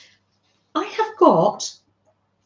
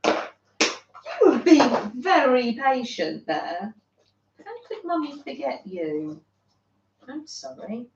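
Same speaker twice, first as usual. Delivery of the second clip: tender to the cat. Real, not acted. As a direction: gently say sorry to the pet. Apologising to the patient cat.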